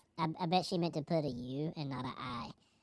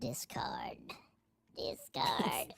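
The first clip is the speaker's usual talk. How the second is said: whisper; 5 semitones higher, 7 dB quieter, much slower than usual. Pretend. Whispered repeated word.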